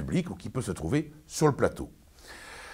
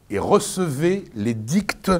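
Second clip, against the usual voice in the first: declaiming teacher; 3 semitones higher, slower than usual. Acted. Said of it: "n'importe quoi".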